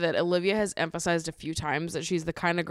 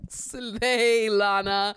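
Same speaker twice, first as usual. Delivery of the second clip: cheering hype; 4 semitones higher, 5 dB louder, much slower than usual. Retold or imitated. Cheering on favourite islander.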